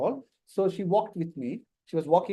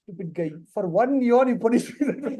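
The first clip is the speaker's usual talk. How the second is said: mock complaint. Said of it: "what she said?".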